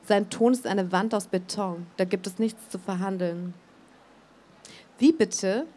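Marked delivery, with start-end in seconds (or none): 5.0-5.7 sharp, irritated 'Wie bitte?'; irritated question. A narrator's reading. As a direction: bristle at the refusal, louder. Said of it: "fragt Elmar irritiert".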